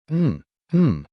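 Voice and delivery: high muffled yell through a gag. A narrator's reading. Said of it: "The Aragarian shouted louder".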